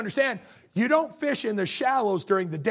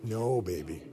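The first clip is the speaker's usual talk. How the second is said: low, soft, slow sweet-talk; placating husbands; 10 semitones lower, 6 dB quieter, slower than usual. Acted. Husbands reassuring their wives they love them, placating. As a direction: soothe her in a much lower, drawn-out voice. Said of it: "all the men are like".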